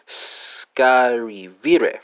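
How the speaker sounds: scarivire drawn out very slowly, syllable by syllable; slow demo pronunciation. Shown as a demonstration. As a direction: stretch out scarivire slowly to model it. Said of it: "spelled S C R I V E R E".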